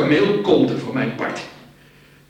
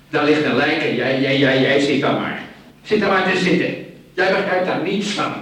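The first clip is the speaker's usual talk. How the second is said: loud, accusing outburst, voice climbing; angry shout; 3 semitones higher, 6 dB louder than usual. Acted. Man yelling at his friend beside a corpse, furious. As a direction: berate him for just sitting there.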